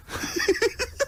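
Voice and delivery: breathy high giggle; high laugh. Real, not acted. Cackling at Orville's nappy.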